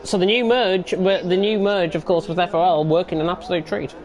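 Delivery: talking round an ice cube; crunching ice while speaking; ice in mouth. Real, not acted. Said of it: "I've got an ice cube in my mouth".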